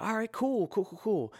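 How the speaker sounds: high, breezy surfer-dude Moses; laid-back dude voice. Retold or imitated. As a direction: toss off the cools like a chill dude. Moses casually brushing God off.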